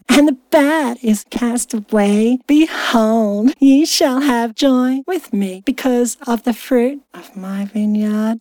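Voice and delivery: slow, measured verse reading; scripture reading. Acted. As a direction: read it out like solemn scripture. Resumes reading scripture aloud.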